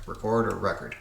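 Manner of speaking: "Record" with stress on the second syllable, then "record" with stress on the first; two pronunciations of record. Shown as a demonstration. Puzzle solver weighing the two ways to say record, stress shifting. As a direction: say "Record" as ri-CORD, then "record" as REH-kerd. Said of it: "or, or record".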